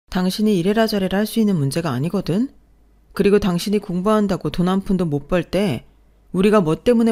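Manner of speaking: loud, rising outrage; wife defending her mother's work, furious; angry wife. Acted. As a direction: hurl it back at him. Wife fights back in quarrel.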